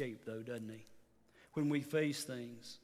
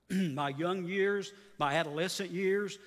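building prayer; 4 semitones higher, 4 dB louder than usual. Acted. Preacher's rising prayer list.

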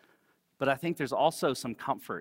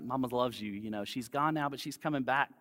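comforting. Retold or imitated. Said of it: "I say things like".

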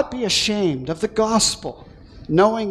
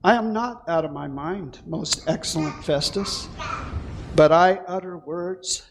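softer, steady reply to the governor; quite calmly; 3 semitones lower, 4 dB quieter than usual. Acted. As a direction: answer the accusation without heat. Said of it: "quite calmly".

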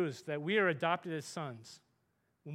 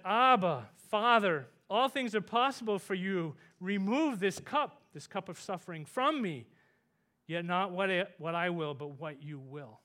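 loud anguished plea, then fading; pleading in agony to his father; a preacher voicing Jesus' anguished prayer; crying out to Father; 5 dB louder than usual. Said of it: "he's crying out to his Father".

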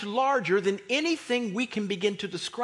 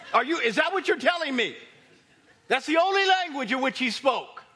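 loud, raised-pitch disbelief; incredulous challenge; 4 semitones higher, 6 dB louder than usual. Acted. Preacher challenging King James purists about God's language, incredulous. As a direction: challenge them loudly, as if you can't believe it.

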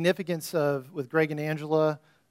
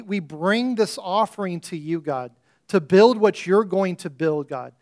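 rising pastoral prayer, louder on each appeal; fervent prayer; 3 dB louder than usual. Acted. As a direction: pray it over the congregation with building fervour. Pastor leads a closing prayer.

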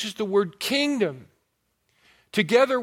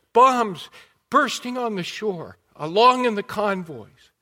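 urgent war reporter; 4 semitones higher, 4 dB louder than usual. Retold or imitated. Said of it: "here are just a few things that he was saying".

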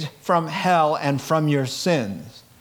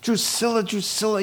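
voice of God calling; 5 semitones higher than usual. Acted. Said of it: "And he'll say".

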